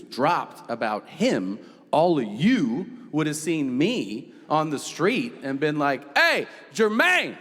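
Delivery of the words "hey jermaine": calling out a fan's greeting. Pretend. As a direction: hail him like an excited fan. Fan calling out on street.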